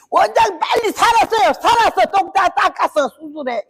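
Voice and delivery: 훨씬 높고 크게 다급히; 원장을 재촉하듯 숨가쁘게 외쳐; 다급한 외침. Retold or imitated. 권사가 원장에게 외침. (원장에게 수술을 재촉하는 권사의 외침)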